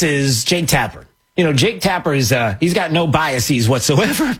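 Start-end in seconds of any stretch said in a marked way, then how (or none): 2.6-4.3 sarcastic praise breaking into a laugh; failing straight face. Real, not acted. Host vouching for an anchor, barely straight-faced. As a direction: try to keep a straight face and crack up. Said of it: "I can't even say it with a straight face".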